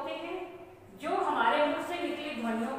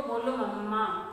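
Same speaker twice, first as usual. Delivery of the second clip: put-on coaxing a child; 3 semitones lower than usual. Shown as a demonstration. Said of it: "हम बोलते हैं बच्चों को".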